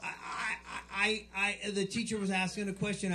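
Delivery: a touch of breathless tattletale excitement; excited kid. Acted. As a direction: stammer eagerly on the first words. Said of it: "He's so excited".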